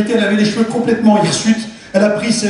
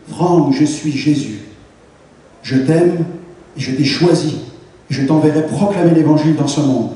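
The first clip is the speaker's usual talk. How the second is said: gentle voice of Jesus; 6 semitones lower than usual. Retold or imitated. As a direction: speak it low and unhurried, calling by name. Voice of Jesus in vision.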